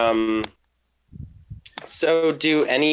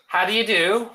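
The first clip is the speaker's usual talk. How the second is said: whispered; 7 semitones higher, 4 dB louder, faster than usual. Acted. In-character greeting.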